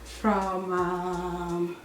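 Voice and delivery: breathless after running upstairs; out of breath. Real, not acted. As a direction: talk while catching your breath. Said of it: "I'm out of breath from running up the stairs".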